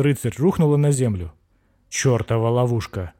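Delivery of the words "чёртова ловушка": hoarse wheeze. Acted. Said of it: "прохрипел бык Рорхард".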